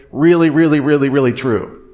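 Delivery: each "really" hit in turn, then "true"; emphatic. Retold or imitated. Preacher paraphrasing Paul's claim of truth, emphatic. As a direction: pile up the "really"s insistently. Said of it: "emphatically stating with emphatic language".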